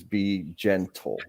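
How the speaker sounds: be gentle, slow, with the gen of gentle leaned on; stress on gentle. Shown as a demonstration. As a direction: draw out and press the first syllable of gentle. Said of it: "Emphasis on the gen part".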